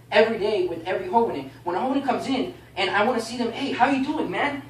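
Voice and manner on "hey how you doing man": higher-pitched, eager hello; upbeat welcoming voice; friendly greeting. Shown as a demonstration. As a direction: greet a newcomer with energy. Models greeting a newcomer warmly.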